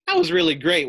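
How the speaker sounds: high, bright bragging squeal; boastful. Acted. Pet brags to Fluffy about her show, excited. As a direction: show off, fishing for praise.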